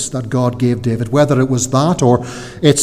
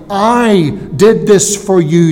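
"I" stretched and higher, line slowed down; stress on I; 5 semitones higher, 3 dB louder, slower than usual. Acted. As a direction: punch "I", then continue slowly. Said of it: "The Hebrew emphasis, that word "I".

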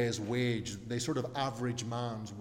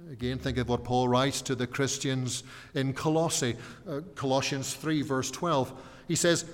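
normal talking voice

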